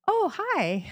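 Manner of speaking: lightly voiced, high breezy greeting; a hint of an unbothered friend saying hi; casual friend voice. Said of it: "she's like".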